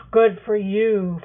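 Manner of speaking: assertive. Acted. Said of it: "Farfadet asserts".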